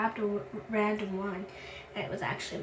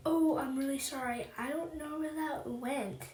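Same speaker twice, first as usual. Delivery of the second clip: mock apology; 4 semitones higher than usual. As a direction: mimic her sorry excuse, pitched up and stretching out. Classmate's excuse for missing shirt.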